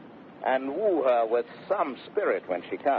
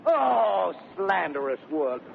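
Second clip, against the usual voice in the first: much higher, declaiming outrage; high theatrical exclamation; mock indignation; 8 semitones higher than usual. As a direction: overplay the indignation.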